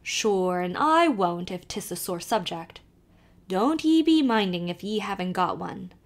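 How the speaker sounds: put-on lively Irish accent, calling to the horse; old Irish driver calling out; Irish carter. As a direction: urge the nag on in a brogue. Kelly offers advice.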